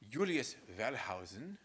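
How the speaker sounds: Julius Wellhausen with a German V and slow, drawn-out vowels; mock German pronunciation. Shown as a demonstration. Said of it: "I say it that way mostly as a joke".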